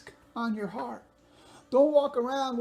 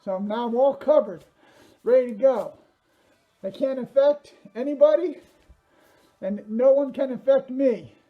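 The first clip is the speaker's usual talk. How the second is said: talking through a mask, a bit louder; through a face mask; 6 dB louder than usual. Real, not acted. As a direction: push the words out behind a mask. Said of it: "I'm losing my breath here 'cause I can barely breathe in this thing".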